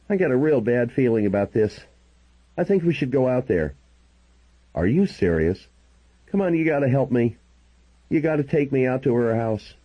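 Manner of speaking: a worried man who can't reach her; Grant, worried and pleading. Acted. Worried Grant telling the narrator he can't reach her, lightly pleading.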